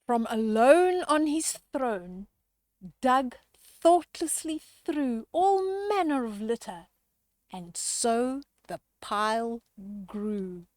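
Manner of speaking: lively rhyming storybook read-aloud; reading to children. A narrator's reading. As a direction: read the rhyme to the kids with relish. Rhyming picture book read aloud.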